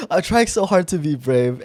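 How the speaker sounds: a touch of nerves while acting brave; nervous retelling. Confessing to a stranger she is pretty, mildly nervous. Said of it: "my voice is shaking".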